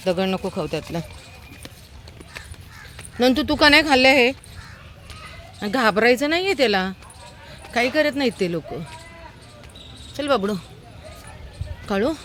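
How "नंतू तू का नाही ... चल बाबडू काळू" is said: higher coaxing voice, a bit louder; pet talk. Real, not acted. Woman coaxes frightened old dog to eat, high cooing voice. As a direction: coax a timid dog to come eat.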